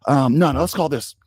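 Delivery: mock panicking coordinator on the headset; flustered play-caller. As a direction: fumble between calls, unsure and rushed.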